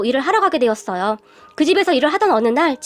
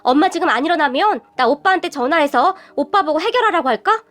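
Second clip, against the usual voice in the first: angry outburst; 2 semitones higher than usual. Acted. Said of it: "다시 화를 내버렸어요".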